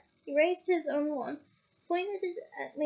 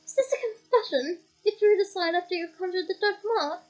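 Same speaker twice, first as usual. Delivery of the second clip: higher, louder accusing question; higher accusing official; accusation; 5 semitones higher, 5 dB louder than usual. Acted. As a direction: pounce on the confession. Diggory accusing Harry.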